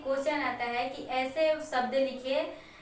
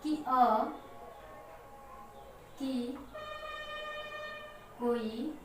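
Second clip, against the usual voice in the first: slow dictation; 8 dB quieter, slower than usual. Shown as a demonstration. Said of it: "यहाँ पे आप लोग लिख लेंगे".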